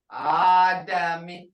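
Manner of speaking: Adami said slowly, vowels stretched; teacher modeling Adami slowly; slow careful Adami. Shown as a demonstration. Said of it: "Now listen to that".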